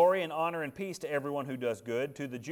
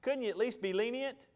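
pleading with God; 8 semitones higher than usual. Retold or imitated. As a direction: gently argue for mercy for Moses. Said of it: "And I'm thinking".

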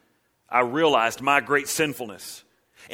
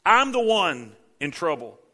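high loud cry breaking down; anguished cry; 4 semitones higher, 5 dB louder, slower than usual. Acted. Isaiah before the Lord, anguished cry. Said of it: "he said".

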